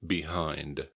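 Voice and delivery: "Behind." with HIND stressed; second-syllable stress. Shown as a demonstration. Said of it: "The emphasis is on the second syllable".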